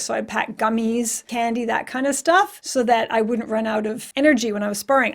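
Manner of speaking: hoarse, sick voice; losing voice. Real, not acted. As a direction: voice fading from illness. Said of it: "I'm losing my voice".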